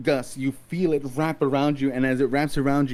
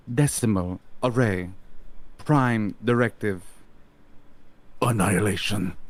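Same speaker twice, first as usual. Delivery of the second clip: magically amplified voice. Acted. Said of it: "you hear a loud voice".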